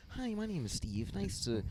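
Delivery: high, soft phone-greeting white voice; white guy voice. Acted. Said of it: "he has to do his white voice".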